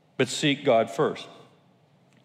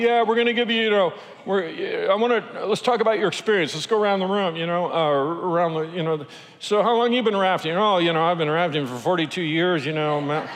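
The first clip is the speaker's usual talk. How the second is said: higher, breezy guide voice; imitating rafting guide; 4 semitones higher than usual. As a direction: play the laid-back veteran guide.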